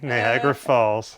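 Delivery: slow teasing repeat; slow drawn-out repeat. Real, not acted. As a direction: drag it out to rub it in.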